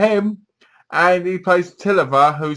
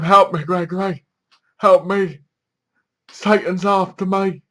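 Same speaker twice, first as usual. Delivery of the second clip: higher-pitched mock plea for help; acted frightened plea; 5 semitones higher than usual. Morgana begging Gregory for help, acted frightened plea. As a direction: plead urgently, lightly acted.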